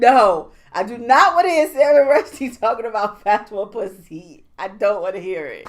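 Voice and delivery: mock protest. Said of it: "I was like".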